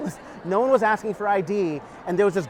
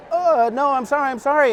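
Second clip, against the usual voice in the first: higher, louder, rushed sorry; panicked apology; 7 semitones higher, 4 dB louder than usual. Retold or imitated. Scared kid apologizing to the bike owner, panicked pleading. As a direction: plead your way out of trouble.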